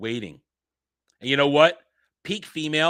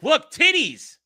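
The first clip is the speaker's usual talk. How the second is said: mock seductive call; 11 semitones higher, 6 dB louder, slower than usual.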